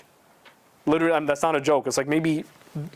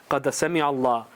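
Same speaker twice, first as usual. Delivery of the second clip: Quran recitation; much faster than usual. Shown as a demonstration. Preacher reciting the verse to his audience, measured chant. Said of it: "the ayat I wanna read to you".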